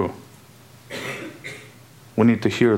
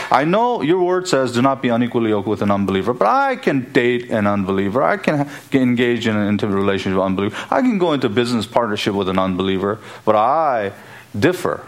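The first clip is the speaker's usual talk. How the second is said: defiant arguing; faster than usual. Acted. Preacher mimics a believer arguing with God's word, mildly defiant. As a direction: rattle off excuses, pushing each "I".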